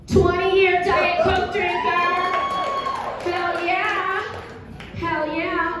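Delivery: high, drawn-out whoop of approval; excited cheer. Real, not acted. Cheering an audience member's answer.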